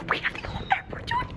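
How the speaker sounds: tiny high squeak; squeaky voice. Real, not acted.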